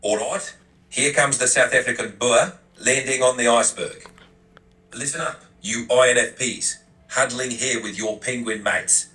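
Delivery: South African Boer giving tough love; rally them firmly in a South African accent. Acted. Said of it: "sound like a Boer from South Africa".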